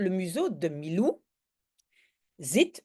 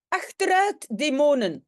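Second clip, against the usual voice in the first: acted shout; 5 semitones higher, 5 dB louder than usual. Professor shouting at imagined demons.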